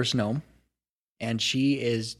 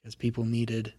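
put-on wistful old dwarf.

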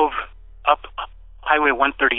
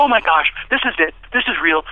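excited; 5 semitones higher than usual. Retold or imitated. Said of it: "I was so excited".

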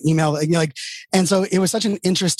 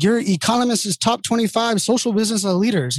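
imitating blunt CEO; 6 semitones higher than usual. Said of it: "that's how he talked to me".

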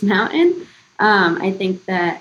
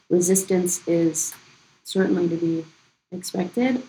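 a hint of a stern general; military leader. Real, not acted. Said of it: "I sound like a military leader".

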